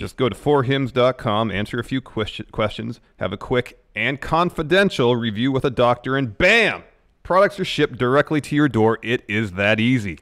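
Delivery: upbeat how-to sponsor pitch; ad read. Real, not acted. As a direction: sell how easy it is. Co-host continues sponsor ad.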